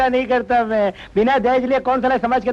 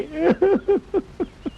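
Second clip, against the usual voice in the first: high, broken sobs; crying; 8 semitones higher than usual. Acted. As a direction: burst into wordless sobbing. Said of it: "रो मत".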